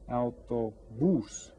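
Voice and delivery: Autobús drawn out slowly, weight on the final "bús"; teacher's slow, syllable-by-syllable Autobús, ending stressed; stress on last syllable. Shown as a demonstration. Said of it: "we stress this last syllable".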